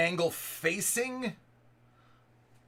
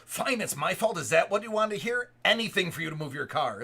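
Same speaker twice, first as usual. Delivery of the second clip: fast, louder sarcastic concession; mock sarcastic lady; 2 semitones higher, 4 dB louder than usual. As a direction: throw it back as a grudging huff. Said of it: "she goes".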